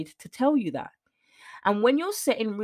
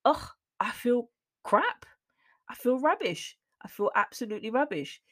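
breathy, drained whisper of self-pity; the voice in her head after a bad interview, whispered and defeated; deflated self-talk; 4 semitones higher than usual. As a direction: whisper it like you've got nothing left. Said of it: "and I'm like".

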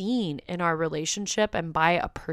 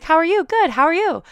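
high, loud autopilot small talk greeting; robot mode; 10 semitones higher, 8 dB louder than usual. Shown as a demonstration. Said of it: "went into robot mode just saying that".

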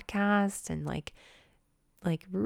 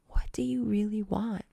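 intimate whisper; 4 semitones higher than usual. Shown as a demonstration. Coach pressing viewers on their desires, intimate whisper. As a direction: whisper it straight into their ear.

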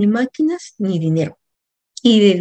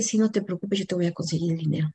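consuelo retold en voz baja; tranquilizadora; 8 dB quieter, faster than usual. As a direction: tranquilizar bajito, sin alarde. Consuela a su amiga apurada. (tranquilizadora, en voz suave)

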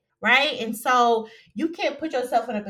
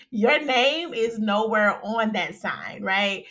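slow composed restatement; slower than usual. Real, not acted. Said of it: "Let me stop".

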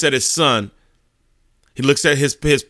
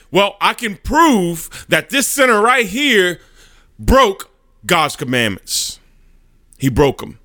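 slow, raised-pitch courtroom accusation; accusing prosecutor; 7 semitones higher, slower than usual. Acted. Satan argues the sinner's guilt before God, accusing. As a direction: prosecutor driving the charge home, drawn out.

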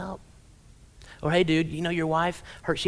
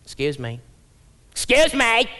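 walking closer; 3 dB louder than usual. Retold or imitated. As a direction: call out louder each time as she approaches. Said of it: "I hear this voice getting louder as it comes closer to me".

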